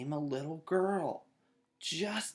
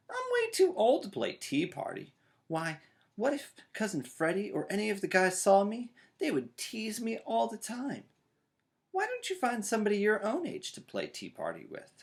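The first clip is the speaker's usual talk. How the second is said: high, whiny big brother refusing; 9 semitones higher than usual. Acted. Brother refusing sister's tea party, high and whiny. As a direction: brush her off, too old for this. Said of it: "said brother".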